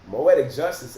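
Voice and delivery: loud call-out of the name. Real, not acted. Addressing the commenter directly, a loud call-out. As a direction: call them out loudly.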